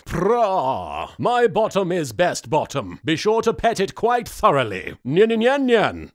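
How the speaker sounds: lightly voiced cat with nyan; cutesy nya speak. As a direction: purr it like a smug cat. Voicing Pharaoh the Cat.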